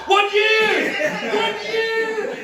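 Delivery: high, loud bellow of "One year!"; fantasy of yelling at his evasive mother, loud and high; mock shout. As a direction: yell it like a killer robot at her. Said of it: "I wanna go".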